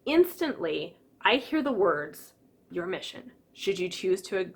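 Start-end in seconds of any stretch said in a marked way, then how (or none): 2.7-4.5 hushed, dramatic spy-briefing voice; Mission Impossible voice. Retold or imitated. Imitating the Mission Impossible briefing, softly dramatic. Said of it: "music from the Mission Impossible show".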